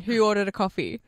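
flat, dry imitation of the receptionist; mock deadpan question. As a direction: ask it with no expression at all. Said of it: "Just deadpan".

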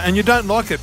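talking through a mouthful; mouth full. Real, not acted. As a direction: speak round a bite of food. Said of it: "talk with your mouth full".

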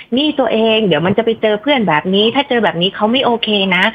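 gentle, relaxed demo of a calm partner; cool, easy voice. Shown as a demonstration. Host shows how to warn a boyfriend, in a calm easy voice. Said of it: "น่าจะเป็นคนที่เสียงเย็นๆ สบายๆ".

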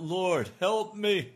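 pleading cry. Pretend. Preacher voicing the sinner's plea, a slow loud cry. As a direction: cry out to the Lord for rescue. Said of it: "and to cry out".

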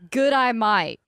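light Australian accent. Shown as a demonstration. Showing co-hosts the meme trick, Australian accent. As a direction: run it together like an Australian "g'day mate". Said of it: "You have a good Australian accent".

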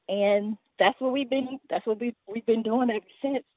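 talking a bit out of breath; short of breath between words. Real, not acted. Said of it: "let me catch my breath".

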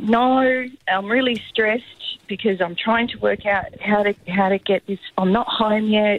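mock-sweet scam text pleading for money; pushy scammer. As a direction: rush the mum into paying, sweetly. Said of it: "she's like".

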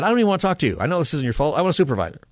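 reliving the moment he'd had enough; fed-up demand. Retold or imitated. I'm just beginning to lose it.

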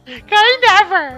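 put-on slow gringo accent with English word. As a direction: drawl it like an American tourist. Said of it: "Eu vou falar com o sotaque de gringo".

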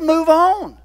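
God's repeated order to move on, now booming; booming command. Acted. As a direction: ring it out as the final order. God's command, repeated more strongly.

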